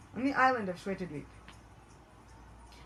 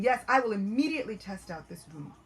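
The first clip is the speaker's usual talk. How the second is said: eager resolve; 6 dB louder than usual. Acted. Demon resolves to test boon.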